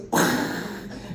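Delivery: voiceless blown-out breath noise; expelling evil. Acted. Storyteller imitating the film character releasing evil, voiceless blown noise. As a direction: imitate spewing out a swarm. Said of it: "and then he goes".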